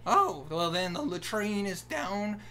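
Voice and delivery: unhurried cartoon Southern voice; stereotypical Southern accent. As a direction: explain it as a helpful country guard with a Southern accent. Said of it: "really offensive Southern accent".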